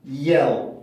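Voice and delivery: "yell"까지만 끊어서 발음; "yell"을 끝 L이 어두운 한 음절로; 첫 음절만 끊기. Shown as a demonstration. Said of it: "여기까지만 발음을 해보면". ("yell", 음절 끝 다크 L로)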